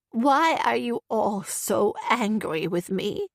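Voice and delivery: slow, hurt plea in a changed voice; crying out, wavering. Acted. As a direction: plead slowly, wounded and confused. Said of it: "she cried, her voice wavering".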